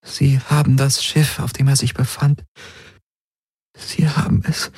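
lightly voiced bearer of grim tidings; urgent messenger. A character breaks the news of the seized ship, tense.

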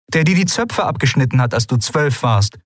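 high, disbelieving reminder; incredulous. A narrator's reading. Woman reminds sister of childhood prank, incredulous. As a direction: keep the pitch up in astonishment. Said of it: "Lien blinzelte fassungslos".

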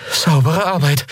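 grudging praise to Kero after the fight; grudgingly impressed. Acted. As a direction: admit it against your will. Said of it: "keuchte sie, widerwillig beeindruckt".

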